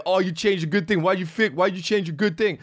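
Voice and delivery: high, whining mock fan voice; disappointed fans. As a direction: whine it like a let-down fan. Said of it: "some people were like".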